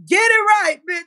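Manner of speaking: high, loud mock of the rival's words; mocking quote. Mimicking the rival's demand, high mock shout. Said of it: "You talking about".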